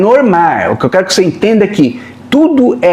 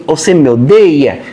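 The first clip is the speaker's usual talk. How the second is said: lower, slow, mock-wounded question; put-on guilt-trip intonation; 4 semitones lower than usual. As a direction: imitate a guilt-tripper asking slowly and low. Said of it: "vem uma entonação pra dizer assim".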